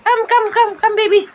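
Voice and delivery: high sing-song calling; calling the baby. Pretend. (tinatawag ang baby sa mataas na boses)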